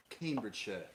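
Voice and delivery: "Cambridgeshire" softly, ending in "shuh"; British pronunciation. Shown as a demonstration. Showing how the county sounds, "Cambridgeshire" ending in "shuh". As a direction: say "Cambridgeshire" as "CAME-bridge-shuh". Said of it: "sounds more like Cambridgeshire".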